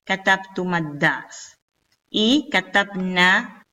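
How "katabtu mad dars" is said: slow "Katabtu mad-dars" with a short MA; shortened linked vowel. Shown as a demonstration. Teacher repeating the linked form, slow and short-vowelled. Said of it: "una fatha en la mim".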